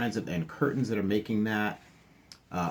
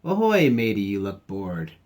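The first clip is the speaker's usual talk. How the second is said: pirate greeting; 4 dB louder than usual. Acted. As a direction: hail your friend like a playful pirate.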